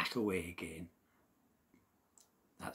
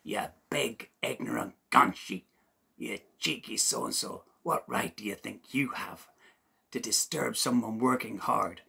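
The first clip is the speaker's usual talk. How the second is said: indignant little man, louder, scolding; shouting wee voice; 5 dB louder than usual. Acted. Leprechaun scolds Seamus for grabbing him, indignant louder shouting. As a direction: tell off the big oaf from below. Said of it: "shouted up in his wee voice".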